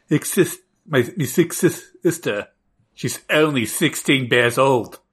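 put-on British accent. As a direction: plead your case in a makeshift British accent. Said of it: "a British flag accent".

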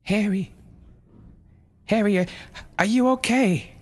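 high, tearful mother voice; pleading mother. A narrator's reading. Mother pleading with possessed son, high and tearful. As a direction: beg him gently, near tears.

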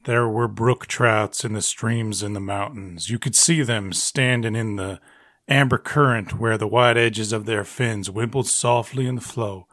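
a hint of an old Western narrator; old-timey Western voice. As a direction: read it like a lightly drawled frontier storyteller. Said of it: "quickly read in an old-timey Western voice".

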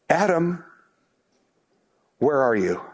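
calling out unhurriedly for someone lost; God searching. Acted. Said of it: "God begins to search for his, his lost creatures".

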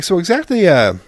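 staged anger to scare them; acted pissed-off dad. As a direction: play the angry dad grilling the kids. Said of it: "acting very pissed off".

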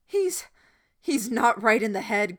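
high, loud stammering cry; cried out. A narrator's reading. Boy crying out to the crowd. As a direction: cry it out, tripping over the start. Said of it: "Gordon cried out".

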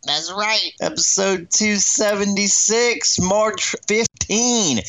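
high, drawn-out hype; hyped show opening. Real, not acted. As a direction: pump up the crowd like a DJ. Host hypes show opening, high pitch.

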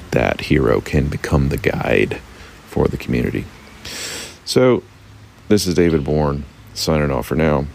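hoarse, croaky voice; talking through a frog in the throat. Real, not acted. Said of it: "with the frog voice".

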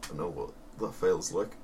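whisper. Real, not acted. Whispered aside.

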